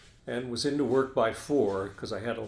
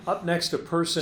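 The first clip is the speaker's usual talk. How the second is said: higher-pitched anchor teaser; newscast tease; 4 semitones higher than usual. Shown as a demonstration. Anchor restarting his tease for the guest, in newscast style. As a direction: announce what is coming after the break. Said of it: "I'll do a little tease".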